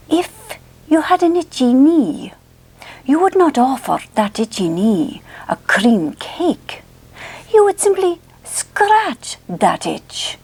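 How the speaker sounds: put-on slow, stretched Scottish accent, swooping pitch; Roger Elliott. Vlogger quotes hypnosis tape on itchy knees, Scottish accent impression. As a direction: intone it like a Scottish hypnotist, very deliberately. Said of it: "he has the most lovely Scottish accent".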